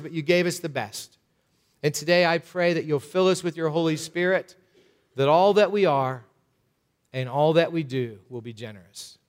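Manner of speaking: measured, earnest closing prayer, unhurried. Acted. Pastor closing the sermon, praying over the church in a steady earnest prayer.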